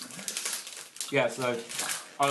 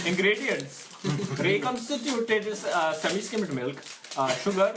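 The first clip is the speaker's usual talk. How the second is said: put-on slow, reading in an Indian accent; 6 semitones higher, slower than usual. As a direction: read the label in an Indian accent. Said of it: "read the English in, in an Indian accent".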